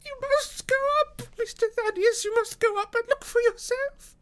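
put-on very high, loud old woman; alarmed housekeeper. A narrator's reading. Housekeeper urges Mister Thaddeus upstairs, high alarmed voice.

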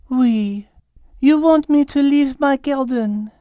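a petite French cat, indignant. Acted. Petite cat asked to leave her garden, French-accented protest. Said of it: "the petite cat said".

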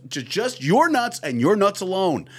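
hammed-up breaking-news read, cracking up; Adam Schefter voice. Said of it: "do it in the Adam Schefter voice".

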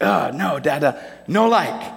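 lightly voiced toddler, slow, refusing; a small child pushing something away; imitating toddler son. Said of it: "disgusted at something".

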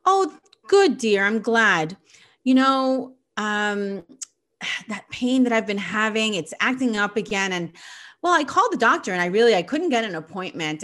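mom skips past the hurt to her own news; lightly voiced cheery mother; breezy oblivious mom. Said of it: "her response is".

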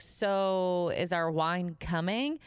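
slow, drawn-out pointed question; pointedly slow customer query; impatient customer. Retold or imitated. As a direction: imitate a demanding diner, dragging the words out. Acted rude customer asking for wine.

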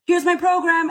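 a high, proud little presentation; proud reveal. Retold or imitated. Creator unveiling her program to fans, high and proud. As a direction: present it like a gift. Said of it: "Then you're like".

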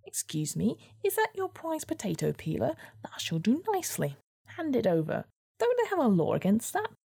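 high, mocking weasel voice; a snide little weasel.

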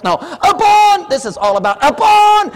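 high, loud, slow upon; preacher's emphatic shout; shouted correction. Real, not acted. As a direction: hammer the word upon. Correcting excuses.

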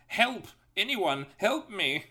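high-pitched British cry for help; slow, high British damsel-style plea; British Tails. Acted. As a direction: call out in a put-on British accent. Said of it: "I don't know why I made him British".

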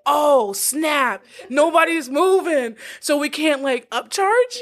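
stretched, rising mock disbelief; mock dismay. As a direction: imitate landlords caught out, stretching the last word. Voices landlords reacting to no movers.

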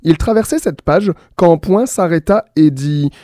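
bright storyteller reading with voiced punctuation marks; lively story reading. A narrator's reading. A radio host reads the punctuation story aloud, lively. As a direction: read the tale playfully to listeners.

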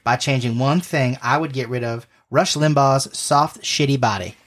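put-on light Southern pageant-queen accent; a sweet Southern beauty queen, lightly put on. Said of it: "how to do a southern accent".

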